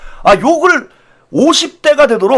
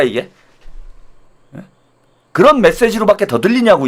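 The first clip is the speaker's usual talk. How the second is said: ordinary delivery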